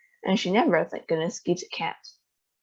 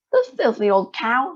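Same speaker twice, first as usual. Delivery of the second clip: higher, louder insult; furious boy cursing the witch; angry shout; 5 semitones higher, 4 dB louder than usual. Acted. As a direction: spit out the insult. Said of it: "he shouted".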